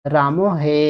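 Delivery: রাম হে with হে stretched; drawn-out call. Shown as a demonstration. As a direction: hold the এ of হে long. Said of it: "এটাকে অনেক লম্বা করে উচ্চারণ করছি".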